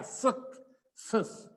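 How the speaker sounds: सक then सस whispered apart, unvoiced; whispered syllables. Shown as a demonstration. Teacher spelling success by sound, whispered. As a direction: split the word into breathy syllables. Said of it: "के आ गया".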